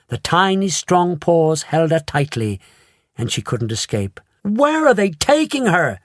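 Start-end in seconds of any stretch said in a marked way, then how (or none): 4.4-6.0 high panicked shriek; shrieking mother. A narrator's reading. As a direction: demand an answer in alarm. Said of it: "shrieked Missus Salt".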